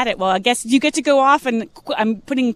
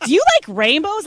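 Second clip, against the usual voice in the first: high, louder imitation of a girl calling out; mock child's yell; 7 semitones higher, 5 dB louder than usual. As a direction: imitate a little girl yelling a question. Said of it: "she yells out".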